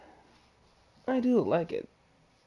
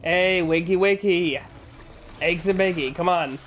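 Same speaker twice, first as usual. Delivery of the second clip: loud sing-song wake-up call; teasing shout to wake it up; playful taunt; 2 semitones higher, 5 dB louder than usual. Real, not acted. Taunting a sleeping ruin guard.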